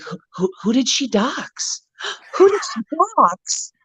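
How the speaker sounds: mock stammer climbing to a high squeak; imitated stammering bewilderment. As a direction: mimic someone flustered, breaking into laughter. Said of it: "ended with her just being like".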